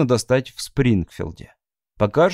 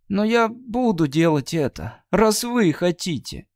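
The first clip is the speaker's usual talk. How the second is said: put-on high, sulky young girl; a resentful girl warning him; Abby's girlish voice; 8 semitones higher than usual. Abby warning Mr Wright nothing good will come.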